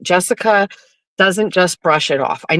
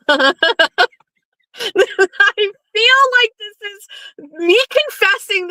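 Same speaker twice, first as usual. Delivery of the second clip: laughing; 14 semitones higher, slower than usual. Real, not acted. Laughing through confession.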